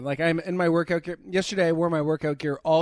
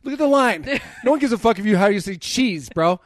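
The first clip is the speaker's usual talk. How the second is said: exasperated rant; 4 semitones higher, 5 dB louder than usual. Retold or imitated. Retelling a rant in the deli.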